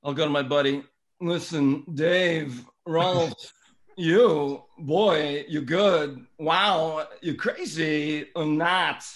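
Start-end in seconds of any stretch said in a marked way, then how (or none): 1.2-9.0 lightly voiced Walken, halting phrasing; a hint of Walken, slowed on the last words; Christopher Walken impression. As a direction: do Walken with odd pauses, drawn out at the end. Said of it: "I'll do a quick walk and".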